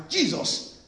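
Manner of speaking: high, loud retold plea; crying out. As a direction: imitate a blind man calling out for mercy. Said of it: "and he was crying".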